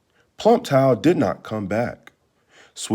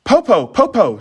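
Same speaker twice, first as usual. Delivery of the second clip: put-on high, bright girl's call; child's voice; 11 semitones higher, 4 dB louder than usual. Clever girl calls her grandmother sweetly. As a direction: sweetly lure the wolf.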